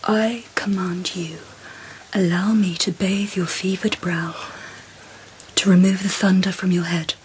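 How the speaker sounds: hushed tender command; seductive whisper. Acted. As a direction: whisper orders like a caress. Empress seductively commanding the emperor.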